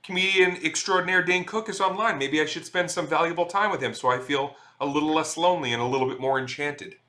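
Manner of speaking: hammed-up delighted viewer spotting a celebrity; imagined fan's reaction. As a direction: play a fan talking to themselves. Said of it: "you could be like".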